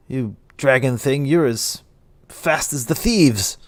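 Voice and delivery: lightly slurred, halting remark; a touch of slow drunken wonder; drunk town speaker. Acted. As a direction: grope tipsily for each phrase. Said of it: "He's obviously drunk as shit".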